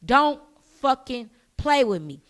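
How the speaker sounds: slow, punched-out warning; stern warning. Retold or imitated. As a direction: spell out the threat word by word. Retold warning to the other woman.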